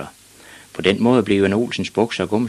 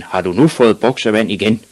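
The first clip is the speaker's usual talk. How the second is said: loud, cross demand; acted angry-dad shout; shouting father; 2 semitones higher, 5 dB louder than usual. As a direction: scold him with a raised voice. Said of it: "begyndte lige med det samme at råbe".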